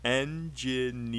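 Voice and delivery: slow engineering in four separate beats; en-gi-neer-ing, slowly sounded out; broken into syllables. Shown as a demonstration. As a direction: stretch engineering out, one syllable at a time. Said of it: "Ah, four".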